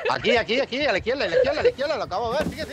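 high, loud urgent calling; urgent directions. Real, not acted. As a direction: call them toward the exit. Guiding teammate during chase.

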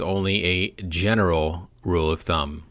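"general" set off and emphasized; deliberate caveat, leaning on "general"; stress on GENERAL. Real, not acted. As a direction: say "general" as if in all caps. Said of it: "Notice the all caps?".

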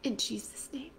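whispered devotional prayer. Real, not acted. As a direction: pray close and hushed. Quiet personal prayer.

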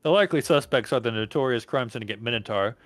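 measured newscaster read; news report voice. Acted.

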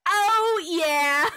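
loud, high, drawn-out whoop; triumphant cheer. Real, not acted. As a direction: cheer the reward at full voice. Celebrates a stamina reward.

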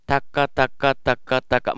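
even, measured "taka" syllables; eight-beat rhythm. Shown as a demonstration. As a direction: vocalise a steady eighth-note pulse. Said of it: "さっきはエイトビートで".

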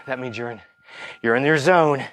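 talking while working out; slightly breathless coaching; while running. Real, not acted. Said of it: "That's the talk test".

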